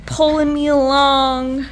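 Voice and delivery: slow, drawn out through a yawn. Real, not acted. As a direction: speak mid-yawn. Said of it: "I don't know why I'm yawning".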